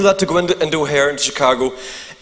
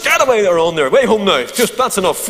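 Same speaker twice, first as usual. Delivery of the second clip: mild mock scolding, like shooing a dog. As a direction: send the dog home, half stern. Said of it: "talking to it like it's the dog".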